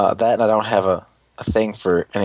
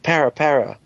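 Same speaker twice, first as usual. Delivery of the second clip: robot creature noise; 4 semitones higher than usual. Retold or imitated. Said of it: "And he's like".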